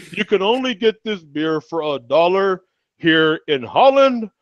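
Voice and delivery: high, mock Russian accent. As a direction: declare it in a hammed-up Russian accent, slowing at the end. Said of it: "accent for him".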